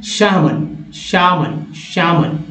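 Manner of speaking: "शामन" as shaa-mun, no L; silent L. Shown as a demonstration. Teacher showing a silent letter, model pronunciation. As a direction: say "शामन" leaving the L out. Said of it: "क्या उच्चारण करना है?".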